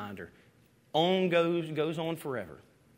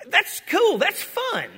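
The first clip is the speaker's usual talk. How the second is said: high, delighted exclaim; light up with delight over it; much higher, gleeful outburst; 4 dB louder, slower than usual. Real, not acted. Preacher delights over God's bow.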